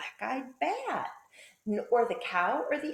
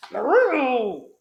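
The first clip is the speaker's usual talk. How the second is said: loud, drawn-out cat cry; cat yowl; 12 dB louder than usual. A narrator's reading. Cat woken by the sneeze, loud yowl. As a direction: yowl like a cat jolted awake. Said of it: "who hissed".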